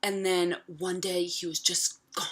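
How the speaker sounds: hushed, toneless whisper; quiet whispered delivery, deadpan; flat whisper. Retold or imitated. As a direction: breathe it out like it's nothing. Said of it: "She says it just like that".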